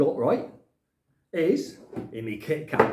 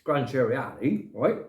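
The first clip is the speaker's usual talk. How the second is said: talking while chewing a biscuit; mouth full. Real, not acted. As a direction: speak round a mouthful of food. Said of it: "Excuse me if I'm eating and talking".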